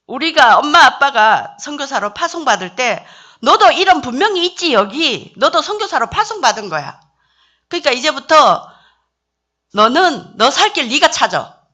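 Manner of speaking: firm, loud lecture to her son. Retold or imitated. Mother telling her son he's on his own, firm and loud.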